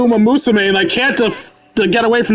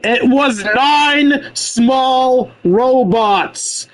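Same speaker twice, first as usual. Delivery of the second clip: very slow deadpan; 4 semitones higher, much slower than usual. Real, not acted. Deadpan objection to the game.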